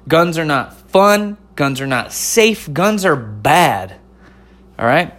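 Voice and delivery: put-on Southern old man voice. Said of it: "old man Southern voice and accent".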